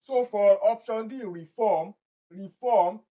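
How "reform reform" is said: "reform" said re-FORM; stress on second syllable. Shown as a demonstration. Teacher shows which syllable has the stress, stressing the second. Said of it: "the second syllable".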